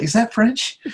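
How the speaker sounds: lightly voiced haughty king; mock king. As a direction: lift it up like a fussy monarch. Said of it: "He's like".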